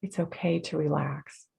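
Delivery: soft, soothing permission; quietly reassure, in an easy tone; gentle reassurance. Acted. Meditator telling the mind and body to rest, soft reassurance.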